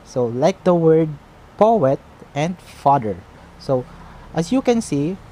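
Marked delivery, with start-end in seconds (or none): 1.6-3.2 POet and FAther, loud on each first syllable; first-syllable stress. Shown as a demonstration. Teacher giving trochee examples, first-syllable stress on poet and father. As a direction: punch the start of poet and father. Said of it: "putting a stress in the first syllable".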